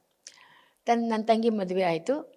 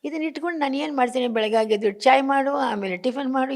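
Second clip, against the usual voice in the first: exasperated complaint; 6 semitones higher, 5 dB louder than usual. Retold or imitated. Retold complaint to husband.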